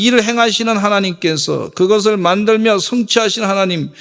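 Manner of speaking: ordinary talk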